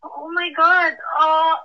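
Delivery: panicking and lost for words; real panic. Real, not acted. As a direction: stammer through rising panic. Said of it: "I'm panicking".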